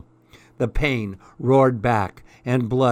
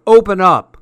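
high, loud bossy yell; furious sister shout; demanding shout; 7 semitones higher, 10 dB louder than usual. A narrator's reading. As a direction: bang on the door and yell. Sister pounding on door.

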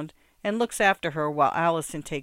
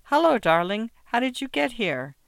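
bright ladylike; 7 semitones higher, 3 dB louder than usual. A narrator's reading. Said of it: "voice is completely normal, ladylike".

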